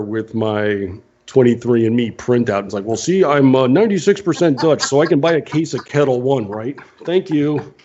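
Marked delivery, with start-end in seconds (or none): 2.8-7.7 slightly higher, chatty pretend shopper; mock customer pleading a case. Customer showing ancestry printout to liquor store, mock pleading. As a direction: lightly play a customer making their case. Acting out buying vodka with proof.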